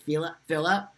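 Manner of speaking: name with a French-accented lilt; foreign-accented Philip, French-style; French-sounding accent. Real, not acted. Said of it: "my name in a Hispanic version".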